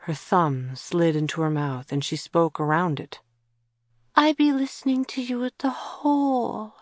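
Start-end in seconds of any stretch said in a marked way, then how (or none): 4.1-6.7 put-on small child's voice. Child Joe speaking.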